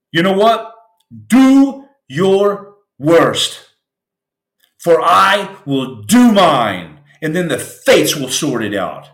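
slow, drawn-out defiance, every word weighed; defiant vow. Pretend. A broken man vowing defiance at the storm, slow and grand. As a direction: dare the storm to do its worst.

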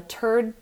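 "third" with a T in place of TH; hard T opening "third"; mispronounced TH. Shown as a demonstration. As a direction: say "third" as "turd". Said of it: "pronunciation errors can even be embarrassing".

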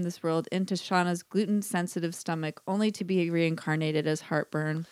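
solemn funeral speech, lightly played; mock eulogy. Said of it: "Here is my eulogy of a sandwich".

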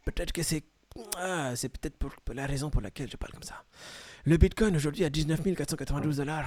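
put-on light jokey African accent; mock African accent. Host reading the Bitcoin price in mock African accent. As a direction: slip into a playful African accent. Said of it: "c'est parti du mexicain à l'africain".

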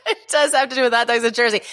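fast, through real laughter; laughing. Real, not acted. Guest laughing back at the host's setup. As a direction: laugh while echoing the host's words. Amused echo of host's question.

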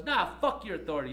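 loud, high defiant curse; imitating the student defying security. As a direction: throw it at security. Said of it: "she says".

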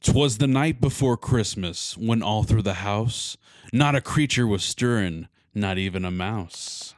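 reading a Christmas poem with drama; dramatic poem reading. Acted. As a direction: recite it like a storyteller. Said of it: "like, dramatic".

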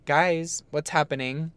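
lightly imitated call to upstairs. Mom checking on the argument from downstairs, calling up. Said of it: "calling upstairs".

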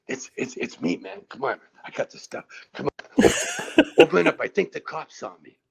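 a lightly voiced dopey stoner, begging to be let in; mild stoner pleading through the door, mumbled; dumb stoner voice. Friend retelling the skit, stoner at the door pleading to be let in, lightly voiced. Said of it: "that dumb stoner voice".

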